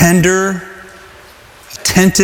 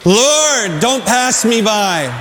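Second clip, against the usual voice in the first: raised plea, said together; 4 semitones higher, much slower than usual. Shown as a demonstration. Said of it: "Let's say that together".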